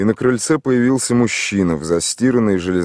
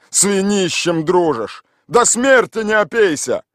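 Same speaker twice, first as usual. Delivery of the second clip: higher, louder nagging; grumbling scold; 12 semitones higher, 4 dB louder than usual. A narrator's reading. The woman grumbles at Mikhail Ivanovich about drinking. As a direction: nag him as she turns away. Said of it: "ворчала тётка".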